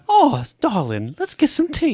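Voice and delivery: slow posh gentleman voice; mock-refined gentleman inviting a friend to tea; esteemed gentleman. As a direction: put on airs, slowly. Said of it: "like an esteemed gentleman".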